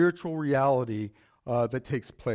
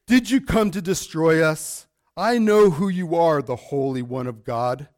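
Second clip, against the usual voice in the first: a touch louder demon's cry, not hammed up; 5 dB louder than usual. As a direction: read the demon's cry with some force. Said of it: "this loud voice says".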